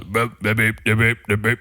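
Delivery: rhythmic blah syllables; dance hall beat babble. Retold or imitated. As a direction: chant blahs like a dancehall beat. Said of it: "I was on some kind of dance hall beat".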